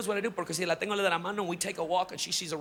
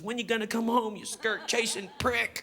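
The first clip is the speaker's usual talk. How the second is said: put-on kid parroting mom; 3 semitones higher than usual. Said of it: "She goes".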